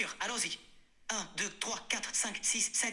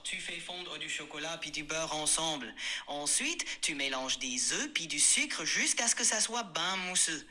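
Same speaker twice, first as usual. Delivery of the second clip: Québécois accent. Shown as a demonstration. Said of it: "avec l'accent québécois".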